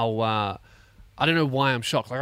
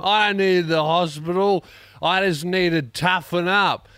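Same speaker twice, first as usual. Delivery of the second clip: much louder, higher macho bluster, slowing at the end; stubborn tough guy; 6 semitones higher, 6 dB louder than usual. Retold or imitated. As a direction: bark it out like a proud bloke refusing help. One-armed guy refusing hospital.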